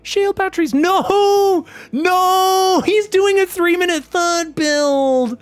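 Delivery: high-pitched, stretched-out frantic cries; shouting a warning. Acted. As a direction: yell desperately to the player, dragging out each cry. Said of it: "I wanna shout to Australia".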